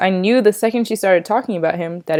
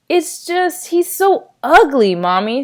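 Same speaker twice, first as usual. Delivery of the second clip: put-on little boy voice; 7 semitones higher, slower than usual. Young Jamie speaking to Mom.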